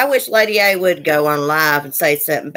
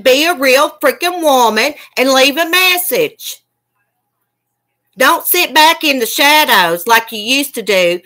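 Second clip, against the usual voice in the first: higher-pitched angry scolding; mad; 3 semitones higher than usual. Real, not acted. Streamer telling off a woman hiding in the chat, mad. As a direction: lay into her, real indignation. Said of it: "I'm sorry I cussed and got mad".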